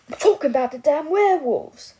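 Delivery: put-on old drunk man bellows the word werewolves; drunken angry outburst. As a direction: shout it like he's slamming the glass down. Drunk man erupts, slams glass.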